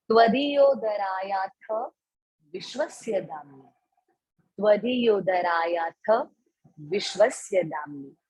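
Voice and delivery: recitation. Shown as a demonstration. Recites the next verse.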